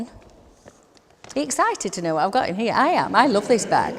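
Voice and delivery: delighted about the bag; excited. Real, not acted.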